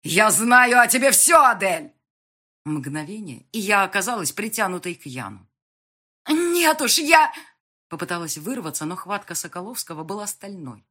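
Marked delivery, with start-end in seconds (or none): 0.0-1.9 loud, forceful shout. Acted. Yan shouting back at Adel, furious. 6.3-7.3 high loud protest. Acted. Heroine protesting in Yan's grip, loud.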